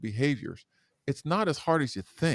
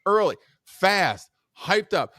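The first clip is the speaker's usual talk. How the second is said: higher and louder, energetic; hyped up; 5 semitones higher, 7 dB louder, slower than usual. Shown as a demonstration. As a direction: pump it up like morning radio. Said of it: "What does that sound like".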